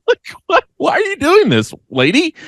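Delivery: high-pitched exasperated what; indignant disbelief. Real, not acted. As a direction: throw up your hands at her. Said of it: "indignant outburst".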